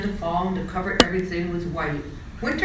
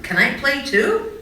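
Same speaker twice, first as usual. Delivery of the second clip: hopeful pleading; 7 semitones higher, 6 dB louder than usual. Acted. Charlie asks to join.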